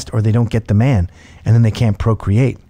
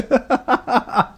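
put-on high, slow, wounded drunk voice; mocking a wounded drunk woman's complaint; crushed drunk woman; 10 semitones higher, slower than usual. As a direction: whine like a hurt drunk. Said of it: "she's instantly crushed".

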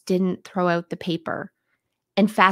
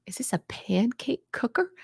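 whispered; 3 semitones higher, 5 dB quieter than usual. Acted. Reading a comment in disbelief.

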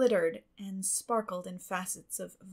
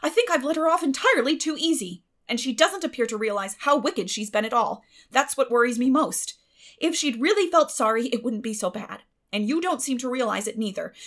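loud, higher, indignant scolding; a louder, raised Marilla voice, cross and worried; stern Marilla scolding; 4 semitones higher, 8 dB louder than usual. Acted. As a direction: lecture him hard about the wicked girl.

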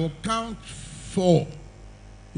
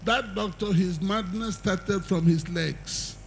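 mocking retort; 4 semitones higher than usual. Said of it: "Which doctor?".

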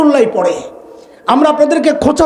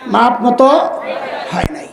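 মাপ মতো হয় নাই stretched very slowly with a laugh; slow drawn-out; much slower than usual. Shown as a demonstration. Teaching the audience their reply, slow drawn-out answer. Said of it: "আমি যা শিখাই দিই শেষ পর্যন্ত ওইটাই বলবেন".

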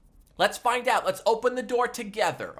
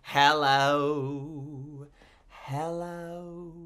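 low, drawn-out goofy hello voice; a goofy low-voiced greeting for the kids; silly deep hello; 6 semitones lower, much slower than usual. Entertainer greets the kids in a low goofy voice.

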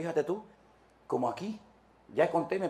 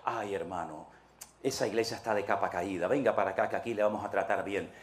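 smooth welcoming brother; 5 semitones lower than usual. Retold or imitated. Rival church welcomes the deserter.

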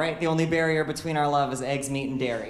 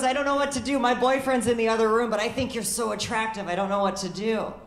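higher, breathless dithering woman; Courtney voice; 5 semitones higher than usual. Retold or imitated. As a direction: play the torn, giggly flirt. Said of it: "And Courtney goes".

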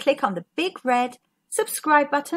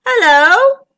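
high, loud hello; inquiring squid; 6 semitones higher, 10 dB louder than usual. A narrator's reading. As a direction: greet the commotion with curiosity. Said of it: "said a squid".

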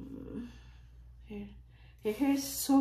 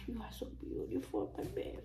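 soft coo; 7 dB quieter, much faster than usual. Real, not acted. Cooing softly to doll.

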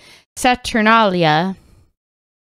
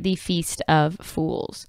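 dramatic title read; 2 semitones lower, 4 dB quieter, slower than usual. Acted. Announcing again.

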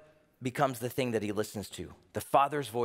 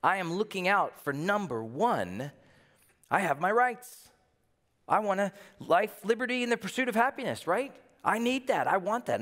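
selfish American; 7 semitones higher than usual. Retold or imitated. Preacher voicing a self-centered American demanding rights. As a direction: play the entitled "me first" guy.

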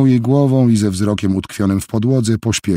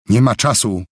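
raised, urgent call; mild shout; 4 semitones higher than usual. Acted. Helen bursts into the lab, urging Jill to flee. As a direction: hurry her along with a mild shout. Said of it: "krzyknęła Helen".

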